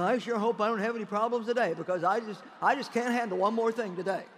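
worried believer. Acted. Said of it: "You don't have to get them think".

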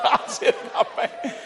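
awed whisper. Retold or imitated. Awed half-whisper retell.

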